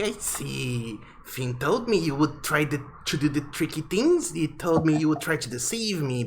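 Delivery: high, screechy-feeling owl. Acted. Owl scolds the party for taking things, in a high voice. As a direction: squawk it like an accusing owl.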